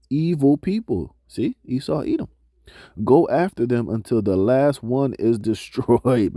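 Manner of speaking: slow, measured reading of scripture. Acted. Preacher reading scripture to the congregation, slow and measured. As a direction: read the verses out to the congregation, slowly. Reads scripture passage aloud.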